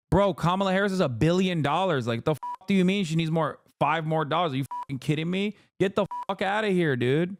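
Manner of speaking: incredulous. Real, not acted. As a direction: fire it back in disbelief. Mock rant at fundraising texts.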